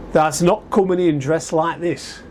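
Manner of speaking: slow, lightly Yorkshire bouncer at the door; a hint of a Sheffield doorman turning him away; mild Yorkshire accent, slow and blunt; Yorkshire dialect. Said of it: "This is in a Yorkshire dialect".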